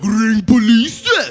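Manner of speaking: loud, high, drawn-out yell; hammed-up slow shout; crackhead shouting back. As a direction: mimic a defiant addict hollering back. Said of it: "he talked shit back".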